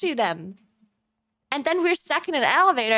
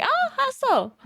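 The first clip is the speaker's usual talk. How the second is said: high-pitched, exaggerated interest; put-on curiosity in a high voice; mock curious stranger; 13 semitones higher, slower than usual. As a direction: imitate a nosy stranger, pitched way up. Retold stranger asking for explanation.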